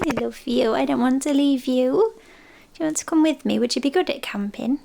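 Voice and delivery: affectionate, lilting questions to a pet; fond pet talk. Real, not acted. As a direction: coax a beloved cat. Cooing to cat before leaving.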